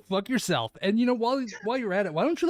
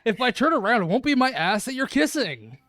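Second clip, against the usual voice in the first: emphatic, louder comeback; loud retort; 7 dB louder than usual. Acted. Boy answering his friend's threat, loud teasing retort. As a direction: throw it back at full volume.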